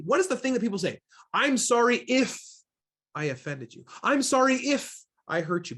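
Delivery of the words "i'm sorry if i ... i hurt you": higher, breezy deflecting apology that dodges blame; hollow non-apology. Retold or imitated. Trainer mimicking people who dodge blame, offhand apology. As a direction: toss it off like a brush-off. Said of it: "Basically putting the onus back on them".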